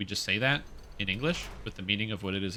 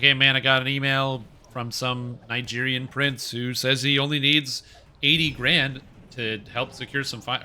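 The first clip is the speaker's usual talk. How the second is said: excited bro; 2 semitones higher, 3 dB louder than usual. Acted. Acting a scam-excited friend.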